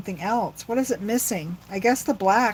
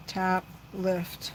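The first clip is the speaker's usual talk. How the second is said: "Tap, lift." repeated much softer, almost to herself; 7 dB quieter than usual. Shown as a demonstration. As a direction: murmur "Tap, lift." quietly while concentrating. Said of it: "So this is the key with this".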